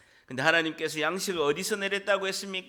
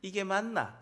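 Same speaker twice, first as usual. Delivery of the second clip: Gyeongsang accent; 4 dB quieter than usual. Shown as a demonstration. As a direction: model the Gyeongsang accent for repeating. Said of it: "경상도 액센트를 써야 합니다".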